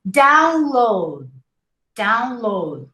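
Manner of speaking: download ending on a barely heard d; two syllables. Shown as a demonstration. Teacher models download, final d almost silent. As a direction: end download without releasing the d. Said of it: "you don't hear the D".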